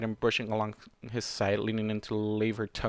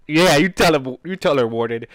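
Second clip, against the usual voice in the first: cheering on; 3 semitones higher, 11 dB louder than usual. Real, not acted. Cheering the character on.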